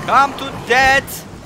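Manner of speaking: slow, stretched mocking challenge; drawn-out taunt. Gamer luring the boss, slow mocking taunt. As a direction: lure the enemy in, drawling it out.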